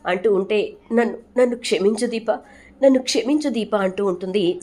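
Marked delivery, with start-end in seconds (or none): 0.9-2.3 a lightly voiced sob-choked apology, higher; tearful plea for forgiveness. Sumitra to Deepa, apologising: mild tearful plea. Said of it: "వెక్కి వెక్కి ఏడుస్తుంది". 2.8-3.8 higher, rising mock-sobbing apology; more desperate tearful plea. Sumitra begs Deepa again: higher, more desperate plea. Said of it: "వెక్కి వెక్కి ఏడుస్తుంది".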